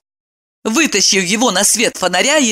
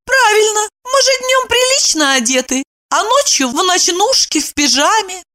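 very high, sarcastic; sting him with irony; snide. A narrator's reading. Evdokia snidely mocks Kirillov. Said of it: "Евдокия съязвила".

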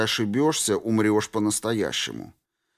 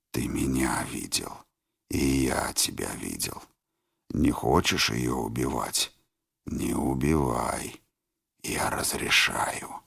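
тихий медленный шёпот; голос из головы; 9 semitones lower, 4 dB quieter than usual. A narrator's reading. (шёпот деструктора)

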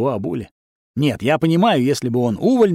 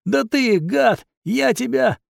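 furious threat; 9 semitones higher, slower than usual. A narrator's reading. Wizard furious at hero.

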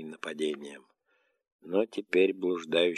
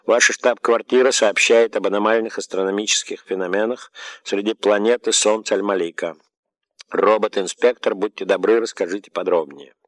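raised, loud announcing voice; machine voice; 3 semitones higher, 6 dB louder than usual. Acted. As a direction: speak like an automated dome. Machine dome addresses robot. (механический голос)

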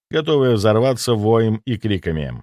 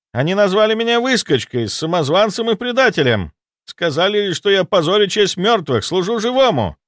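panicked ghost soldier; 9 semitones higher than usual. Acted. Ghost soldier reporting the dead army, high panicked voice. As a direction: babble the news in alarm. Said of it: "воскликнул призрак".

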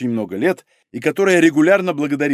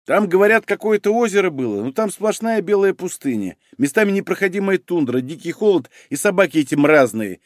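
mildly grumpy griping, pitched up at first; grumbling; 4 semitones higher than usual. Acted. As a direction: grumble through a list of complaints. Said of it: "ворчливо заметил Мамыкин". (слегка ворчливо)

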